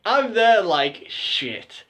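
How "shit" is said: whispered curse of dread; hushed, voiceless "oh no" moment. Retold or imitated. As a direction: whisper it as the game is up. Realising he has been caught.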